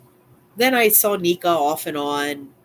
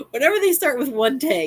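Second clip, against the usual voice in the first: higher, louder mock of the neighbor; mocking old lady storyteller; 10 semitones higher, 4 dB louder than usual. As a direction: ham up her "one day" opener. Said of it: "you got a whopper coming".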